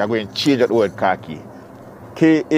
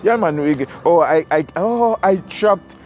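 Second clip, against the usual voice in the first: higher-pitched, halting podcast patter; a hint of a performed host voice, pitched up; put-on podcast voice; 5 semitones higher than usual. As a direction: lightly put on a higher voice for the podcast, stumbling over the words. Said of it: "Put a voice, put a little".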